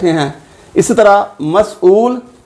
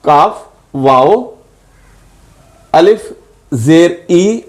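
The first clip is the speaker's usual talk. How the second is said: spelling out letters; slower than usual. Shown as a demonstration. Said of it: "अलग अलग करके लिखें तो ये है".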